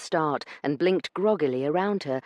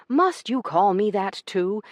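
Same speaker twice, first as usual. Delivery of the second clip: begging; 6 semitones higher, 5 dB louder than usual. A narrator's reading. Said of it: "begged in a very unducal way".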